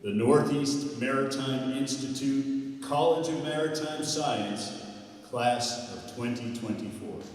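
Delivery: big booming announcer call; radio announcer voice. Shown as a demonstration. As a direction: announce it like a boxing ring MC. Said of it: "in my best radio announcer voice".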